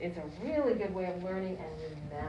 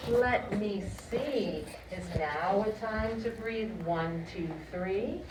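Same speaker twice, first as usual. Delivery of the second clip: put-on slow, playful singsong for kids; broad singsong kids theatre; slower than usual. Shown as a demonstration. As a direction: act it out for little ones. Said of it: "This is what we're gonna learn".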